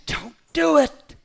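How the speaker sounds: high, slow and loud; God's voice. Acted. Voicing God warning us all, slow and high. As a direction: stretch it out like a divine warning. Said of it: "God's looking at me and you and say".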